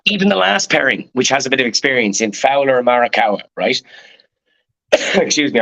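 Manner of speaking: hoarse from shouting all day; worn, hoarse voice after a long day of shouting. Real, not acted. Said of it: "I've been shouting all day and yesterday".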